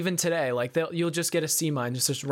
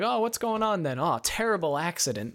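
bumbling cop; 2 semitones higher than usual. Retold or imitated. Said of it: "bumble around and say".

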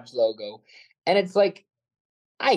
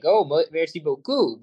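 French catchphrase. Retold or imitated. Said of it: "the French catchphrases".

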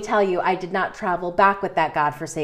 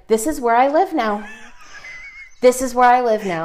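mock declaration; 3 semitones higher than usual. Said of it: "And I said".

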